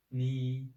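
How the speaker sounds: "ni" held on a level tone; first tone. Shown as a demonstration. Teacher drills the syllable for learners, level first tone. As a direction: say "ni" in Mandarin first tone, long and even. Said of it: "the first tone".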